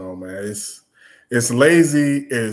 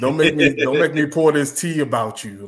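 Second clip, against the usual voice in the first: higher, teasing sass; mock sassy; 3 semitones higher, 4 dB louder than usual. Rapper threatening to spill secrets, mock sassy. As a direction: imitate a sassy warning. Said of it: "It's still sassy".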